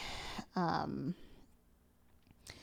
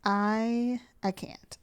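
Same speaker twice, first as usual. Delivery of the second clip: breathless whisper; 3 semitones higher, much slower than usual. Real, not acted. Overwhelmed, can't speak.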